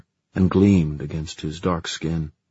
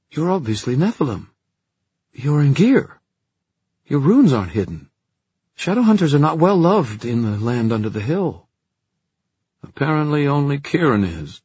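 raised character voice; 9 semitones higher, 6 dB louder than usual. Acted. Puka's hostile voicing.

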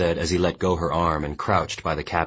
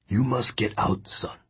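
put-on old captain's urging; 6 semitones higher than usual. A narrator's reading. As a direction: press the boy to flee.

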